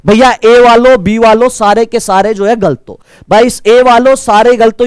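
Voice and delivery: loud teacher calling out the wrong answers; scolding call-out. Real, not acted. Teacher scolding the A and B groups, loud. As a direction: call out the students who got it wrong.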